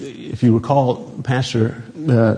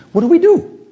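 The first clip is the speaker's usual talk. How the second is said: high, loud prompt to the crowd; calling for response; 5 dB louder than usual. Real, not acted. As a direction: call for the congregation to answer. Prompting the congregation.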